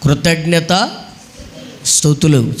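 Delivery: "కృతజ్ఞత స్తుతులు" in two separate parts, pause between; word modelled for repeating. Shown as a demonstration. Preacher has unschooled listeners repeat "కృతజ్ఞత స్తుతులు", modelled in parts. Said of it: "చెప్పండి నాతో పాటు".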